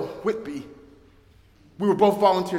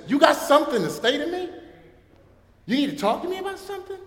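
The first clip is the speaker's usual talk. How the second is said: menacing inmate; 9 semitones higher, faster than usual. Retold or imitated. Menacing inmate confronts chaplain.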